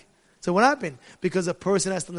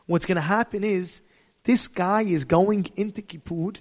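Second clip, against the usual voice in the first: ordinary delivery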